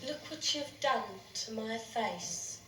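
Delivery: low, slow haunting reproach; nightmare accusation. Acted. Dead friend confronting her in a nightmare, slow accusation.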